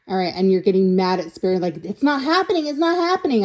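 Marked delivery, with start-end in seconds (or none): 1.8-3.4 mock whining. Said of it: "I hear you whining".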